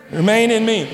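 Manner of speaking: a stronger, fuller "Remain in me". Real, not acted. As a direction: say "Remain in me" with energy. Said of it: "Much better".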